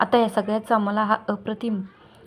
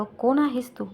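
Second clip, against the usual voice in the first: serious, steady question; a hint of a stern friend asking again; grave tone; 3 semitones higher, slower than usual. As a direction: ask it gravely, no warmth. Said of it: "त्यानं गंभीर सुरात त्याचा प्रश्न पुन्हा विचारला".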